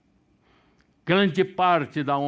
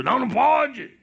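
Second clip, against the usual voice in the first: mock outrage; 8 dB louder than usual. Mocking the spanking law.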